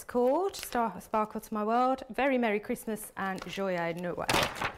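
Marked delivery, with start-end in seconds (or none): 3.2-4.7 put-on slow, careful French accent. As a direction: draw out Joyeux Noël in French. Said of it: "My terrible French accent".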